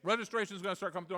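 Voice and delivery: words round a mouthful of pie; mouth propped open. Real, not acted. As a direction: talk with jaw held open. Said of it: "I'm trying to talk with my mouth open".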